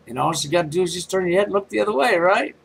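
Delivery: fast mock-helpful advice, climbing at the end; sarcastic encouragement. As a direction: rattle it off up to a pointed question. Sarcastic advice to look away.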